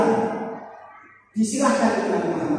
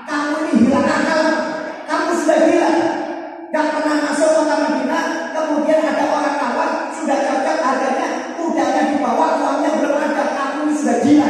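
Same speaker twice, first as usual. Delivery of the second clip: angry husband scolding; 5 semitones higher than usual. Acted. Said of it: "Suaminya marah-marah".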